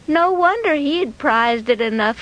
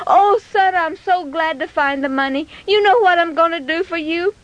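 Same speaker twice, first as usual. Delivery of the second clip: mildly gushing delight; acted grateful excitement; pleased mother; 4 semitones higher than usual. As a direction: dote gladly on your son. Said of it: "she was so pleased over the whole thing".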